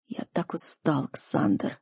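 whispered, broken and weary; father whispering his exhaustion; exhausted whisper. A narrator's reading. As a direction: barely breathe it out, spent. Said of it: "заревел отец".

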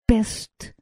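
soft, murmured plea. A narrator's reading. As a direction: murmur it quietly.

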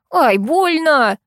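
high, slow pained squeal. A narrator's reading. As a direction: yelp at the blow. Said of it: "взвизгнул вор".

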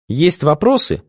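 haughty reply. A narrator's reading. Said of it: "величественно ответила она".

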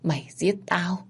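a soft, breathless whisper of accusation; ghostly whisper. Acted. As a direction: hiss the words like a ghost. Ghost accusing her killer.

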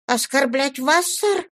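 high, pleading disbelief. A narrator's reading. Young John pleads with Mr Dorrit in a high, pleading voice. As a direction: beg him to believe you, voice climbing. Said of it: "взмолился юный Джон".

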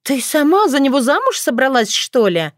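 high, shocked disbelief; can't believe her ears. A narrator's reading. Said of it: "Отрада была шокирована".

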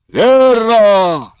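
loud, high shout of agreement. A narrator's reading. Cossack backing the old man from the crowd, shouting. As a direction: yell it from the back of the crowd. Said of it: "крикнул из-за его чахлой спины".

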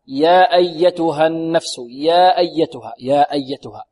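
يا held for two counts before أيتها; slow recitation, lengthen the vowel of يا evenly; two-count madd. Shown as a demonstration. Teacher showing the madd length, يا drawn out two beats. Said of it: "هكذا".

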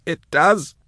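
very high whine; high, pained captive whine; whined. A narrator's reading. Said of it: "whined Jaff".

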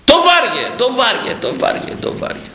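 blows fading away. Retold or imitated. Preacher acting the prophet's blows on the donkey, fading to a whisper.

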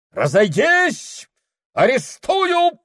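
very high, loud, slow order; captain shouting at the crowd; commanding shout. Acted. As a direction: order them off.

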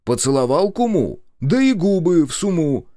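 loud, jaunty rhyming jab; brisk. Acted. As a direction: toss off the saying with gusto. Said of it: "бодро ответил я".

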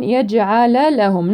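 in يجعل لهم give each lam its full fatha; يجعل لهم slowly, no clipping of the first lam; slow careful two lams; both lams full. Shown as a demonstration. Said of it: "نعطي كل لام".

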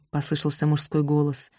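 usual speaking voice

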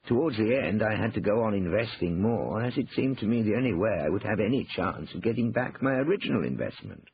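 understated regret, falling at the end; Cornelius, rueful. A narrator's reading.

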